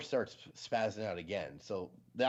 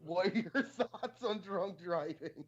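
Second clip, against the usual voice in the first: slow, much higher read breaking into laughter; laughing read; 10 semitones higher, slower than usual. Retold or imitated. Streamer rereading the chat question, laughing. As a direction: try to read it straight and crack up. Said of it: "Socialist asks".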